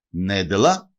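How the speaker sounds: «Νέντελα» as NE-de-la, with plain l; hard l. Shown as a demonstration. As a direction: stress the first syllable of «Νέντελα», hard l before a. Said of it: "Αναφέρεται όμως και ως". («Νέντελα» με σκληρό λ, τόνο στην αρχή)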